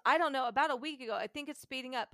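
anxious rush. Retold or imitated. Stressed student answers.

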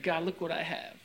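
a hint of a smug Pharisee. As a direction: gloat lightly to God. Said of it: "He's like".

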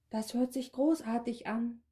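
hoch, leise und schmeichelnd gegurrt; gurrend. Acted. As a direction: gurr es verführerisch. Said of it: "gurrte die Frau". (Frau gurrt dem Verkäufer schmeichelnd zu, gurrend)

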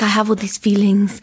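lightly put-on non-English accent; retold confession in a mild foreign accent; imitated non-English accent. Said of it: "struggling to speak in English".

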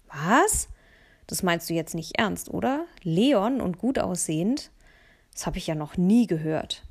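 lightly voiced boy, playfully offended; mock outrage. Mats pretending outrage at her teasing, mock offended.

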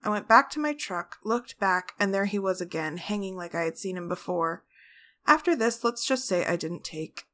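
soft, even story narration; story reading. Acted. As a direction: read the ghost tale quietly. Reads a ghost story aloud.

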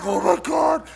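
loud, high, hammed-up despair; mock crying wail. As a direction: wail it like a panicked crybaby. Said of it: "I'm crying".

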